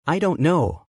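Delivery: mildly broken repeat, fighting tears; voice cracking. A narrator's reading. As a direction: let the repeat crack a little. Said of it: "His voice cracked".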